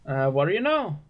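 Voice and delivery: a lightly voiced, mildly surprised preacher. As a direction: greet the players who stayed behind. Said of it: "and he kinda".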